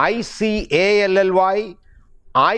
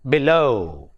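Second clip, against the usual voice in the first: "below" with a light "be" and strong "low"; below, weight landing on "low"; stress on second syllable; 3 semitones lower than usual. Shown as a demonstration. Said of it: "the stress is on the second syllable".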